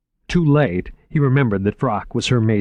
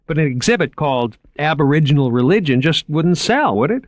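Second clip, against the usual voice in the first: higher, keen salesman voice; lightly raised, enthusiastic museum man; eager curator Moriarty; 5 semitones higher, 3 dB louder than usual. Acted. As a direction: pitch the exhibit like an excited young curator. Moriarty pleading.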